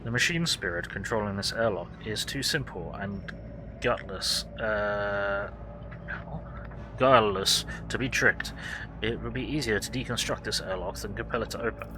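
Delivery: gloomy raspy tech priest. Acted. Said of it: "says in a gloomy, raspy voice".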